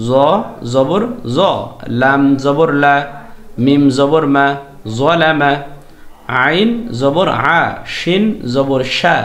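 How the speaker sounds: measured, emphatic letter-by-letter drill; steady teacher drill voice; recitation drill. Acted. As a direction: spell each syllable out firmly for students to repeat. Leads a spelling recitation drill.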